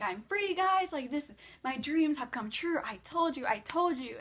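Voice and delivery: freaking out. Retold or imitated. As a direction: imitate a friend thrilled to be free. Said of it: "Juan is freaking out".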